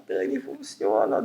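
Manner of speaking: slow low-voiced assurance that it works; deep emphatic insistence. Real, not acted. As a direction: drop the voice low and lean on "funciona". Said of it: "eu vou falar".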